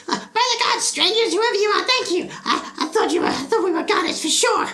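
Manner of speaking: high, loud relieved cry of a stranded father; father calling out. Acted. Rescued father calling up to the caravan, high loud relief. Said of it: "the father of the group calls out and goes".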